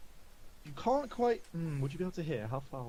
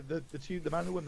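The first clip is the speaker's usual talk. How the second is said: usual speaking voice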